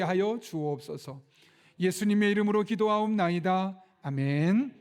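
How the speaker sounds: solemn, emphatic pastor's prayer; fervent church prayer; public prayer. Real, not acted. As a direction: pray aloud for the congregation, building to the amen. Leads congregation in prayer.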